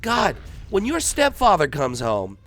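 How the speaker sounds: very high, loud shrieking mom; mother shrieks at her son, very high and loud; hysterical mother. Retold or imitated. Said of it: "She's like".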